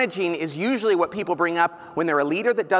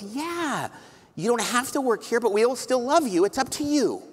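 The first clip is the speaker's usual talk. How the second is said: earnest reassurance; 6 semitones higher than usual. Retold or imitated. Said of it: "nothing but earnestness in it".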